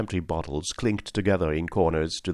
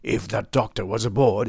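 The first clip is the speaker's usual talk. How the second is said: barked; 3 semitones higher than usual. A narrator's reading. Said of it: "he barked".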